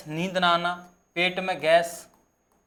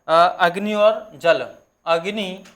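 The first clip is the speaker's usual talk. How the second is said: slow dictation; 4 dB louder, much slower than usual. Shown as a demonstration. Teacher dictating notes to students.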